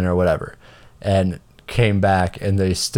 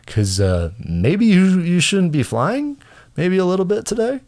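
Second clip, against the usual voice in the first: sarcastic concern; 7 semitones higher than usual. Retold or imitated. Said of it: "I was like".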